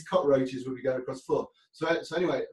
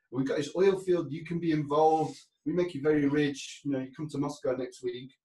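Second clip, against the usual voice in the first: lightly imitated Russian accent; 3 semitones higher than usual. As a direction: make a pitch in a rough Russian accent. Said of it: "I'm very bad at accents".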